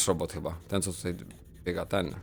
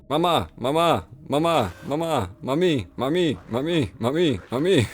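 mock child calling mama; slower than usual. Calling out like Stewie.

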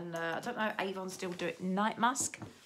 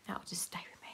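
whisper; 6 dB quieter than usual. Real, not acted. Keeping the damaged box herself.

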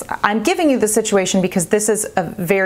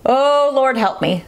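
quick prayer; 6 semitones higher than usual. Retold or imitated. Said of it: "thrown up prayers".

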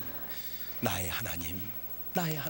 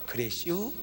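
Chungcheong dialect; 4 semitones lower, 8 dB quieter than usual. Retold or imitated. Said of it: "이렇게 말이 유해요".

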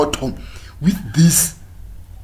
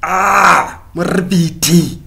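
mock slow purr; 3 semitones higher, 3 dB louder, much slower than usual. Mocking a flirting man.

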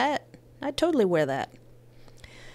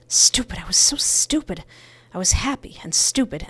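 self-scolding; 4 dB louder than usual. Real, not acted. Berating herself.

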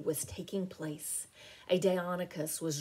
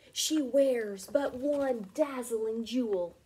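higher, slow, louder cry of discovery; excited cry; 5 semitones higher, 4 dB louder, slower than usual. A narrator's reading. Duke Dudley crying out on seeing Dinarella's jewel. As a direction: cry it out in delighted recognition. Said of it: "Cried the Duke".

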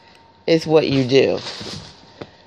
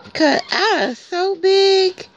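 puppy voice; 6 semitones higher, slower than usual. Pretend.

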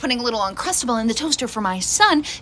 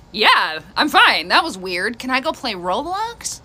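slow, offhand and trailing off softer; casual, unbothered; 3 dB quieter, slower than usual. Retold or imitated. Mom imitating her daughter asking to play Roblox. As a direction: shrug it off like a bored kid.

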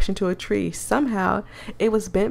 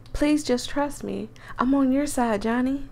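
put-on country accent; 4 semitones higher than usual. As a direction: plead gently in a country accent. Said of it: "I'm messing up her accent".

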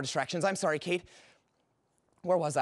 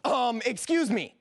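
slow, higher-pitched indignant cut-in; pointed interruption; 5 semitones higher, 3 dB louder, slower than usual. Acted. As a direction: butt in jealously, drawing it out. Jealous boyfriend interrupts.

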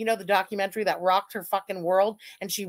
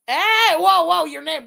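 high, loud "whoa" of surprise; real astonished outburst; loud amazement; 6 semitones higher, 9 dB louder than usual. Real, not acted. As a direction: burst out, high and loud, at a startling discovery. Startled by a viewer's name.

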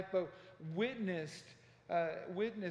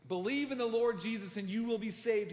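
loud, higher imitated yell; retold yelling; 5 semitones higher, 6 dB louder than usual. Harper yelling from the water, loud retold shout. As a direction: raise it into a forceful cry. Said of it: "and he's yelling this".

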